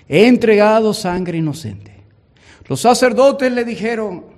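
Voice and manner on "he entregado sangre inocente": loud, desperate confession; anguished cry. Acted. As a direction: Judas crying out his guilt. Judas cries out to priests.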